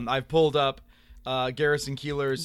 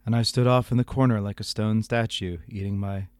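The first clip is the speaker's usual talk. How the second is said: Garrison Keillor; 2 semitones lower than usual. Acted. Host embellishing the broadcaster's email, Keillor impression. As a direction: spin it like a folksy monologue. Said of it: "do my appropriate, uh, Garrison Keillor voice".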